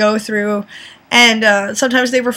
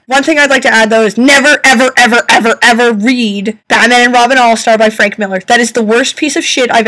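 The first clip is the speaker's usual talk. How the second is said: louder, pressing never ever ever; emphatic warning; 5 dB louder than usual. Real, not acted. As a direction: warn them off hard, repeating ever. Passionate warning against bad comic.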